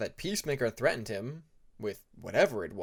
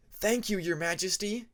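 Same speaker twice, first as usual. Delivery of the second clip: grateful; 7 semitones higher, 3 dB louder than usual. Acted. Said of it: "Dusk said gratefully".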